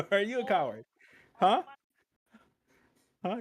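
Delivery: high, loud sneering taunt; mocking taunt. Repeated taunt, higher and louder.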